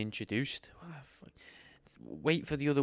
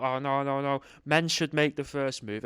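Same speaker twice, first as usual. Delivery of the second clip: mock women's protest. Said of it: "women would, you know, talk".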